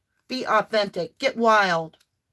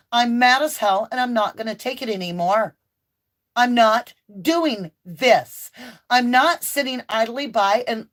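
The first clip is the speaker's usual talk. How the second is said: mock defiant outburst; 2 semitones higher than usual. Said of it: "it is okay to say".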